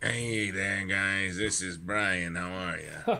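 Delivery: sexy, low voice. Greeting the hosts as a caller on the program: sexy voice. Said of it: "That is a sexy voice".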